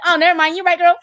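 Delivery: laughing, loud and high. Real, not acted. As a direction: give in through laughter. Laughing concession.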